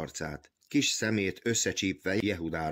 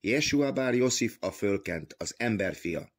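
proclaiming aloud; 4 semitones higher than usual. Acted. Jehuda proclaiming the Messiah to the officials, crying out. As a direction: call it out like from the rooftops. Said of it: "Hát én kiáltok, íme halljátok".

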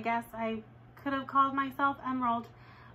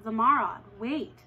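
parent calling; 4 dB louder than usual. Retold or imitated. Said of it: "they said".

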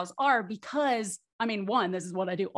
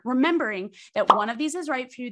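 ordinary talk

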